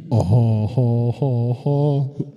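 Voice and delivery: hammy prank call laugh; prank caller voice. Retold or imitated. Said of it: "und die Typen".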